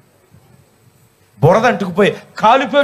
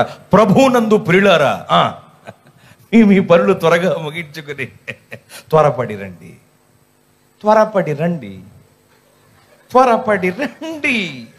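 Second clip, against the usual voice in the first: drawn-out call, slowing down more and more; mocking church announcement; 3 semitones lower, slower than usual. Preacher mocking the repeated mike call, slowing to a drag. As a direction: stretch the last calls slower and slower, ending in a chuckle.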